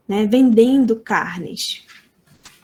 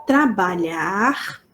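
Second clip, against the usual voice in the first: slow demo word; 3 semitones lower, much slower than usual. Shown as a demonstration.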